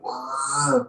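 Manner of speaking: small retold "ah"; mock scream. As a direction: imitate a yell without volume. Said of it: "He's fucking screaming and yelling".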